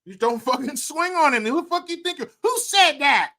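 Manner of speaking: high-pitched indignant challenge; indignant outburst. Acted. Confronting the one who dared swing on him, indignant. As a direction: rattle it out high, confronting someone.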